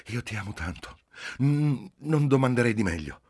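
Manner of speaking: high, exalted, shameless declaration; ingenuous gushing, rising in force; elated naive impudence. A narrator's reading. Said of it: "esaltata e ingenua impudenza".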